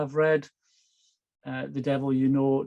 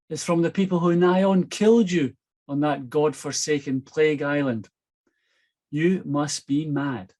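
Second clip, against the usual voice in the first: blunt wife; 3 dB louder than usual. Acted. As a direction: voice the fed-up wife telling him off. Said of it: "had been characteristically blunt".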